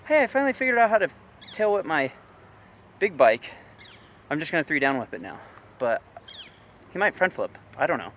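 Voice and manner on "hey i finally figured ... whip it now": mock excited rider. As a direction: rattle it off like a kid bragging about finally landing it. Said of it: "if he just went from, like".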